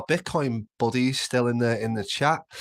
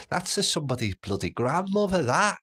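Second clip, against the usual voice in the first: indignant; 9 semitones higher than usual. Retold or imitated. Retelling confronting thieving coworkers.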